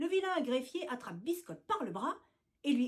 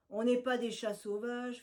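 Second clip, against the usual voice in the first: honeyed tone. Acted. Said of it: "fait-il d'un ton mielleux".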